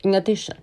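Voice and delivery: "In addition" stretched, then a pause; pause after linker. Shown as a demonstration. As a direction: draw out "In addition" and stop briefly. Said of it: "连接词可以停顿并拉伸". ("In addition"拉长后稍停)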